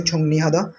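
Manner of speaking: छोंगनी with an n sound, not r; छोंगनी said with n, not छोंगरी; pronounce with n. Shown as a demonstration. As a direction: say छोंगनी हादा with n in the middle. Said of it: "ये नून की आवाज़ देता है".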